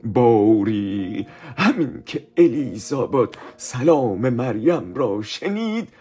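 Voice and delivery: slow, solemn Bible reading; scripture reading. Acted. Teacher reading Luke to the children, slow and solemn. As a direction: read the verse slowly and reverently.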